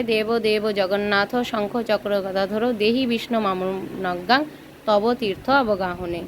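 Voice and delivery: slow, measured Sanskrit chant-like reading; mantra recitation. Shown as a demonstration. Teacher showing students how to recite the bathing mantra, slow and measured. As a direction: recite the prayer slowly and evenly. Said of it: "তীর্থ অবগাহন মন্ত্র বলবে".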